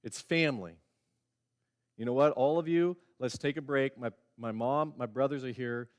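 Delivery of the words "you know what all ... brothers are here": mock cheerful Jesus. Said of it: "That was Jesus' response".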